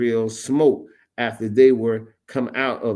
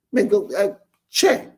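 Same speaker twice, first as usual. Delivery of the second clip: excited boss call; 9 semitones higher than usual. Retold or imitated. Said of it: "He said".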